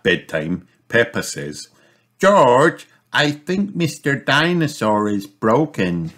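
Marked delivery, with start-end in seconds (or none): 2.2-6.1 high little piglet voice, calling her brother; a small girl's high voice; Peppa's voice. A narrator's reading. Sister warning brother at bedtime, high piglet voice.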